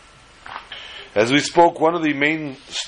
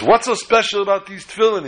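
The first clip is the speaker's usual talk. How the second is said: mocking doctor; 9 semitones higher than usual. Doctor mocks the boy.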